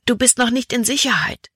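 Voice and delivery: high-pitched warning at normal volume; restrained, anxious call. A narrator's reading. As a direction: warn a friend, pitch lifted. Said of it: "hätte Libby am liebsten gerufen".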